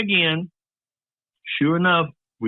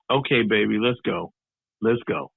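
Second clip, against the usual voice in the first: low, subdued coaxing; resigned mom; 4 semitones lower than usual. Retold or imitated. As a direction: imitate a mother gently ushering a child away. Mom gently leads son away.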